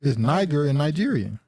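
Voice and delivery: Niger with hard g, Nigeria with "nigh"; pronounced NIGH-ger. Shown as a demonstration. Host showing how you say it, Niger and Nigeria both starting "nigh". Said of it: "That's how you say it".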